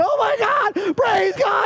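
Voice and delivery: very high, loud shrieking with praising tone. Retelling a loud church service, imitating people screaming. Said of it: "They're all screaming".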